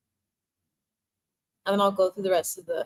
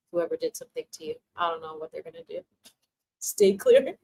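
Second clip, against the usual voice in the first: ancestors warning. Retold or imitated. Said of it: "They literally said".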